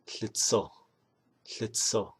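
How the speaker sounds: Tlitzo with a breathy tl and a falling end; Navajo word for yellow. Shown as a demonstration. Teacher showing viewers Navajo yellow, careful and falling. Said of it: "you say".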